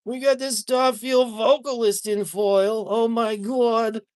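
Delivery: high, slow gushing over a card; swooning fan, drawn-out awe; excited anime fan. Real, not acted. Gushing over anime waifu cards.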